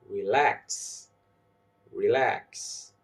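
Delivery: "relax" as re-LAX; stress on second syllable. Shown as a demonstration. Teacher saying words for learners to repeat, second syllable stressed. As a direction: model "relax" with weight on LAX. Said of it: "I will say the word and you repeat".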